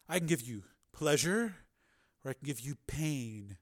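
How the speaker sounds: hushed, teasing menace; quiet, deliberate taunt; soft threat. A narrator's reading. Dominant figure threatens captive.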